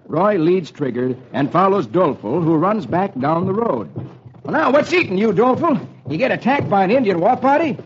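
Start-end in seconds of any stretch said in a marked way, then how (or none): 4.4-7.8 cowboy hero. Acted. Roy voiced.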